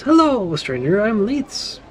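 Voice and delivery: put-on high, bright-eyed child greeting; little girl voice. Small girl greets player.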